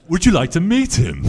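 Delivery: high, beaming lady's voice, laughing through it; proudly offering to introduce her husband; proud posh lady. Retold or imitated. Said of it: "She beamed from ear to ear very proudly".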